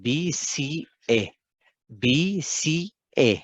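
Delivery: slow, drawn-out mimic of a confused student; imitating the students' wrong answer. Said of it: "student इसको क्या लिखते हैं".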